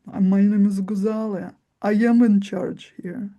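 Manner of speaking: mafiosi power voice. Shown as a demonstration. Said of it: "embody that mafiosi archetype".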